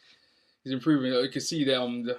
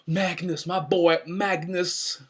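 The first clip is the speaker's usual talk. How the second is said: excited cheer; 6 semitones higher, 6 dB louder, much slower than usual. Real, not acted. Cheering his favourite wrestler.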